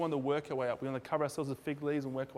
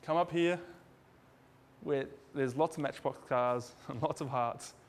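calm God. Retold or imitated. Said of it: "God says".

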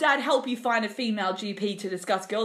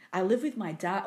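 sexy voice; 3 semitones lower, 3 dB quieter than usual. Shown as a demonstration. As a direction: read it like a seductive whisper. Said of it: "I can't read that in a sexy voice".

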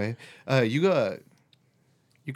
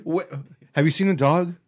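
fake innocent; 6 semitones higher, 5 dB louder than usual. Pretending innocence to bandmate.

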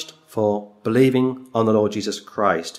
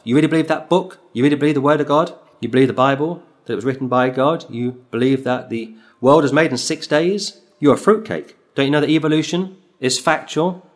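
a touch of scornful mockery, some lines rushed; mocking ridicule. Festus ridiculing Paul before the king, mild mocking voice. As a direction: scoff at him in disbelief. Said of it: "Festus replies with a loud voice to ridicule him".

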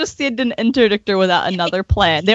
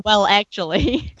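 know-it-all voice; slower than usual. Retold or imitated. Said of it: "That would be him being".

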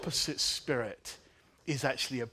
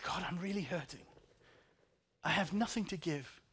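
quiet plea; 4 semitones higher, 4 dB quieter than usual. Retold or imitated. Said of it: "I said".

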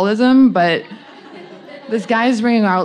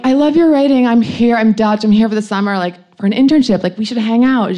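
gushing fan; 3 semitones higher, 3 dB louder than usual. Retold or imitated. Obsessed fan messaging her idol, mock gushing. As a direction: imitate an eager fan pitching a meetup.

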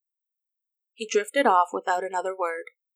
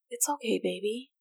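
soft and tender; 3 semitones higher, 4 dB quieter than usual. A narrator's reading. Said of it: "she said softly".

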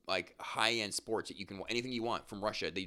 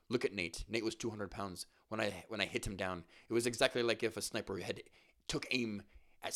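put-on half-hearted Irish accent; McGregor in Irish accent. Reading McGregor's boastful interview, lightly attempted Irish accent. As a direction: barely try an Irish accent. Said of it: "I wanna read this, like, in his".

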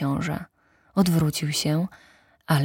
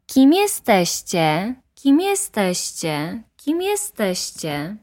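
echo fading; 5 semitones higher, slower than usual. Acted. The echo throws the prince's question back, slow and fading. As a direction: let each repeat die away like an echo. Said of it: "odpowiedziało echo".

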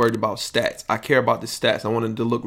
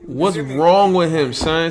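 slow, higher and louder disbelief; incredulous; 5 semitones higher, 3 dB louder, slower than usual. Real, not acted. Baffled by Tom Hanks' son's clip, slow and disbelieving. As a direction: drag it out, baffled.

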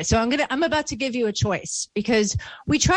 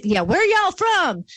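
Southern gentleman; 10 semitones higher, 4 dB louder than usual. Retold or imitated. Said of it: "he said".

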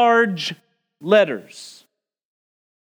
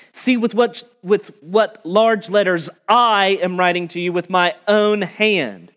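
"I" and "my" hit hard in the verse; stress on I and my. Shown as a demonstration. Preacher reading the verse, stressing I and my. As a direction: lean on "I" and "my" as if in red ink. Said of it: "the I and the my are further emphasized".

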